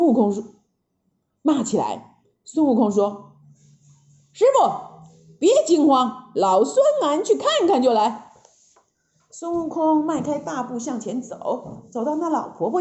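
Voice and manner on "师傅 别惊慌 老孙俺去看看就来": lightly voiced breezy Monkey King; a touch of swagger; Monkey King, confident. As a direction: reassure your master, starting on a high call.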